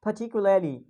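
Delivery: "particularly", British, no R; British accent. Shown as a demonstration. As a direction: leave out the R in "particularly", British style. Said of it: "we are dropping the R sound".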